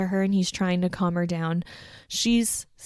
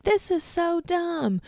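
mock fed-up; 11 semitones higher, slower than usual. Courtney walking out of a fight.

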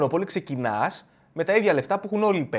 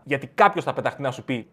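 usual speaking voice

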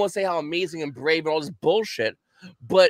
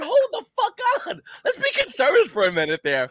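imitating minority dude; 10 semitones higher than usual. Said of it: "the black guy's going".

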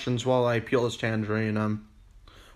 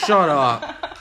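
laughing; 5 dB louder than usual. Real, not acted. Laughing at a crude joke.

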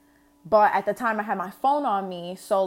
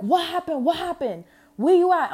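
mock thick Trini accent; 9 semitones higher, 5 dB louder than usual. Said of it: "the accent gets way thicker".

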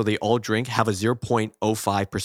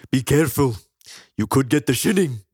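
hammy cartoon Scottish warning; Willie; 3 semitones higher, 3 dB louder than usual. Groundskeeper warning Bart, mock Scottish. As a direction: warn in a Scottish burr. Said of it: "it's Willie, and he talks to Bart".

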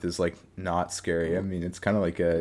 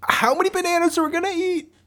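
very high, fast monkey squeak; Diddy Kong voice; 6 dB louder, faster than usual. Acted. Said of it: "This is my Diddy Kong voice".

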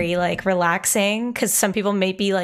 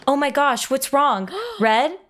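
alarmed character voice; 6 semitones higher than usual. Acted. Tom panicking, Red collapsed.

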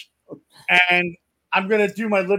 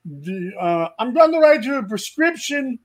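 doctor voice. Retold or imitated. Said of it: "he's like".

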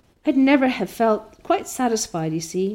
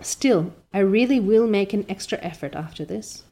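rapturous Anne; 2 semitones higher, 3 dB louder than usual. Acted. Anne rapturous about dress.

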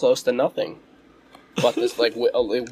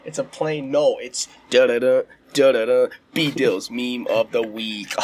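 mock superhero announcer. Mock superhero intro jingle.

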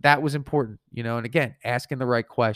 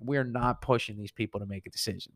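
softer, firm aside to oneself; inner thought; 2 semitones lower, 6 dB quieter than usual. Retold or imitated. Salesman silently resolving not to pressure the couple, quiet inner thought. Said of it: "in my head, I'm like".

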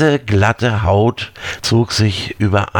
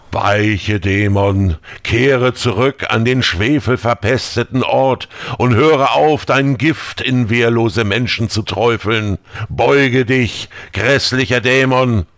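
incantatory. Acted. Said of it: "Isaaks Worte beschwörend".

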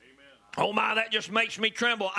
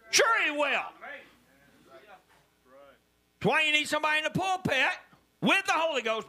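raised, higher preaching voice, driving each line; full-force preaching; 7 semitones higher than usual. Acted. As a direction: preach it hard to the congregation.

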